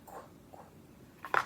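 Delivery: "Qu" as a crisp k-w burst; sounding out qu. Shown as a demonstration. Teacher isolating the first sound for a child, sounding out. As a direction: repeat "qu" clearly, isolating the sound. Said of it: "I hear that qu sound".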